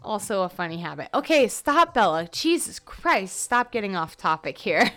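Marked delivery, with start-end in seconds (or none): 1.1-4.9 self-scolding. Real, not acted. Scolds herself for rambling.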